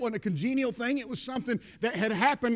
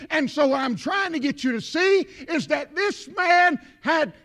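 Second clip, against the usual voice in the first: building preaching; 4 semitones higher, 4 dB louder than usual. Real, not acted.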